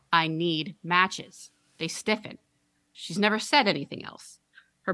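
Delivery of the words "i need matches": drawn-out eerie monotone; slow, menacing child; very slow creepy girl. Acted. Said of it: "monotone and deeply".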